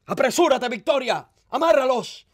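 high, loud urgent orders; urgent command. A narrator's reading. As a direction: call out orders mid-fight. Urgent order during the fight.

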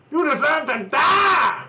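shouted battle cry. Pretend. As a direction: yell it as you shoot. Shooting at someone.

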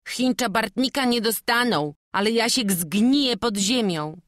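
high, loud, sneering villain voice; mocking thief. The thief Bartnik threatening Jasiek, high and loud with mockery. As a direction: taunt the boy with cruel glee.

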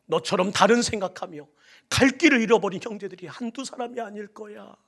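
ordinary delivery

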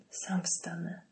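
breathless whisper, no voice; injured man gasping in a whisper; wheezing whisper. A narrator's reading. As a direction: force the words out, hurt and winded. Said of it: "wysapał Straczan".

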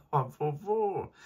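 sudden high startled cry; jolted awake, high and loud. A narrator's reading. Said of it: "machte Bagheera".

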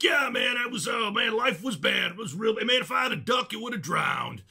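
imitated Texan storyteller, high and hollering; Mark Howard. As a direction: belt out folksy Texan sayings in mimicry. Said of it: "wonderful colloquialisms that he'll be like".

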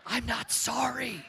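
playfully unrepentant; mock defiance. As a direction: take back the apology with a grin. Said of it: "I'm sorry".

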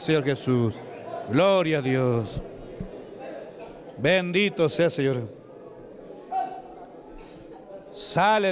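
insistent, rhythmic revival chanting; full-force exorcism prayer. Real, not acted. Preacher casting out demons and praising Jesus, full-force prayer. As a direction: hammer the commands, then let praises fall away.

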